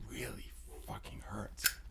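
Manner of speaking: hushed whisper. Real, not acted. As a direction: whisper it intensely. Intimate emphasis.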